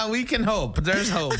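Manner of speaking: laughing. Real, not acted. Laughing while speaking.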